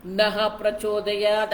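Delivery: नः as "naha", low and slow; visarga shown. Shown as a demonstration. Teacher citing the mantra, slow "naha prachodayat" for नः प्रचोदयात्. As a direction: draw out नः प्रचोदयात् with a breath after "na". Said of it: "न के बाद विसर्ग है".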